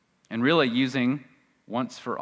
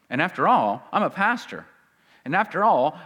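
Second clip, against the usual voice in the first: higher, put-on self-justifying; mock self-styled pastor; 5 semitones higher than usual. False teacher claiming he is a pastor, mock-insistent. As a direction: plead your credentials, lightly hammed-up. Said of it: "these men who we're gonna see".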